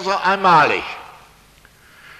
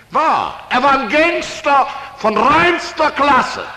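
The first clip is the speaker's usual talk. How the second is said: mock admiration; 8 semitones higher, 5 dB louder, slower than usual. Mock praise of Jakob.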